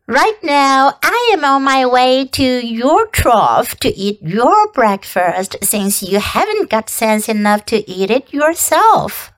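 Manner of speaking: sly, squeaky glutton rat; twitchy squeaking rat voice. Acted. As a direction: gloat like a greedy rat.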